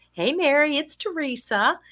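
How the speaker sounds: high, cheery phone greeting; smile in the voice. Retold or imitated. Speaker phoning the upset client, smile in the voice. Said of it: "you could hear a smile in my voice".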